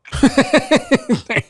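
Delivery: high-pitched surprised laugh; sudden high laugh at the machine; burst of high laughter. Real, not acted. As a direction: cracks up at the robot voice. Reacting to the AI voice.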